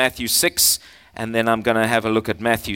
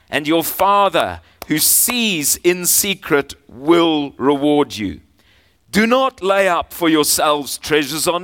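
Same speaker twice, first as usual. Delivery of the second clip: scripture reading; 2 semitones higher than usual. Acted. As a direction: read the verses like a proclamation. Reads Matthew six aloud.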